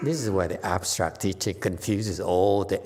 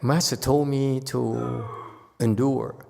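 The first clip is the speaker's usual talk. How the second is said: mock excuse; 4 semitones higher, slower than usual. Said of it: "Don't say that".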